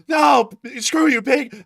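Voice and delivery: loud, high slow mock defiance; hammed-up angry suspect; defiant suspect yell. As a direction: spit it at the cop. Acting out arrested man.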